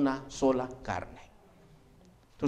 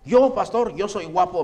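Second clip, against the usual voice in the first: boastful husband; 5 dB louder than usual. Retold or imitated. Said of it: "me dice".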